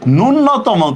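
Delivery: ন্যূনতম said slowly with a long doubled n, "nun-no-tomo"; common mispronunciation. Shown as a demonstration. Teacher quoting many people's mistake, mispronounced with doubled n. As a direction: stretch the first ন্যূনতম syllable onto a held double n. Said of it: "অথচ এটা কিন্তু ভুল".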